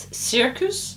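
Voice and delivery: English word said with an American accent. Shown as a demonstration. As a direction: say circus the American way. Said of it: "avec mon accent à l'américaine".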